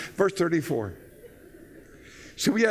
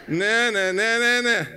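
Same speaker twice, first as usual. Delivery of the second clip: raised, louder whiny objection to church; indignant protest; 5 semitones higher, 4 dB louder than usual. Acted. Husband balking at his wife's church plan, indignant. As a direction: act out a husband digging in.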